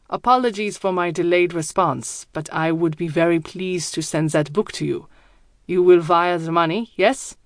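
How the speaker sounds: put-on thick German accent, deep voice; low, heavy German-accented speech. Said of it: "His accent is thick, German, and his voice is deep".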